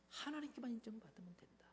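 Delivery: sudden whisper after the shout; hushed sermon climax; whispered punchline. Acted. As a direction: drop to a hush to land the point. Preacher drops to punchline.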